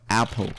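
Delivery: "apple" with a short A; short A sound. Shown as a demonstration. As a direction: say "apple" with a short open A, not the letter name. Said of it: "A is pronounced as R instead of A".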